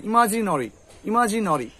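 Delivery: ইমাজিনরি with rounded "no-ri"; nori ending. Shown as a demonstration. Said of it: "এরকম করে".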